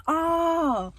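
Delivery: high, drawn-out coo; imitating her own thrilled gasp of delight; excited reaction. Acting out seeing the ducks.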